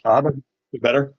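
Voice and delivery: muffled bad connection; like talking through a wall. Real, not acted. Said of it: "you're still sounding like you're muffled".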